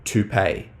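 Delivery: toupee dropped soft and low after a pause; deadpan punchline delivery; punchline beat. Shown as a demonstration. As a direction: land the word toupee quietly, as the twist. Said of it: "And then breaking with this".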